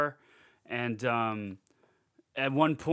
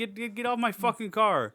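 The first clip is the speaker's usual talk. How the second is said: hammed-up furious neighbour shouting down at someone; angry car owner; 9 semitones higher than usual. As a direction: shout him off the car in a put-on voice. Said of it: "he's like".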